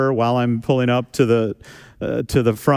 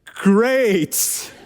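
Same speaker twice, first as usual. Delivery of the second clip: higher, forced Great; strained fake praise; 7 semitones higher than usual. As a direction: squeeze out a polite lie.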